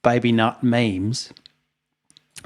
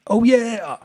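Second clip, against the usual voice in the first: high, wailing "Oh, yeah" pitched way up; mock sobbing; 12 semitones higher than usual. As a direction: imitate a jug crying over a lost friend. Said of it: "Except he's going".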